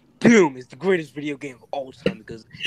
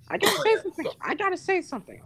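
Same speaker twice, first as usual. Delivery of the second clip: high-pitched voice; 13 semitones higher, 5 dB quieter than usual. Acted. High-pitched interruption bit.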